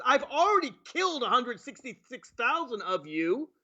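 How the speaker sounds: a hint of a dismissive leader; mock president. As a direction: sarcastically voice the president not caring. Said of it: "our president says".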